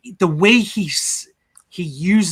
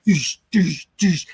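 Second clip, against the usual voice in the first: mouth-made thuds, "doosh"; imitated head thuds; slower than usual. Podcaster retelling a head hit against the wall, imitated thuds. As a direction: imitate repeated blows against concrete.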